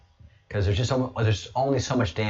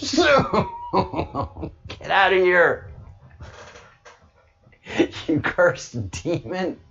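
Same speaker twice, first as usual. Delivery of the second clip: a hint of a Scottish Sean Connery growl, slower at the end; 9 semitones higher, slower than usual. Retelling Bruce's phone, a light Sean Connery Scottish voice. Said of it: "with Sean Connery's voice".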